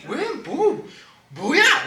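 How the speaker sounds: mock road-rage retort; acted irritation. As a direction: snap back like an annoyed driver. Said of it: "짜증 나기도 하고".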